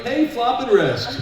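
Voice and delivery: high, stretched-out hallway shout; imitated fan call. Someone recognizing him down the hall, imitated fan call. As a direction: mimic a passerby calling out in recognition. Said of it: "if someone recognized me and walked down the hall".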